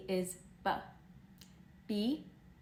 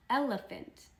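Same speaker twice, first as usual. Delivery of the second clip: elephant said higher with a falling tune; modelling the word; 4 semitones higher than usual. Shown as a demonstration. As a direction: model elephant up high for the kids.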